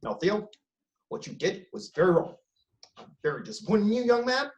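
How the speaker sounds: lightly voiced Obama, measured and paternal; a hint of Obama scolding a son; a mild take on Obama lecturing young Theo; Barack Obama impression. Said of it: "my best Barack Obama impression".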